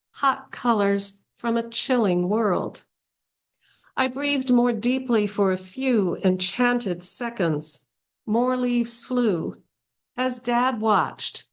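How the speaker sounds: unhurried recital of rhymed couplets; poetry reading. Acted. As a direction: give each short phrase its own space. Reads a poem aloud.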